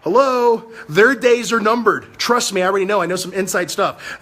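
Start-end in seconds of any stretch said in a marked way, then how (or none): 0.0-0.7 mock greeting. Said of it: "everybody say hello to the censorship police".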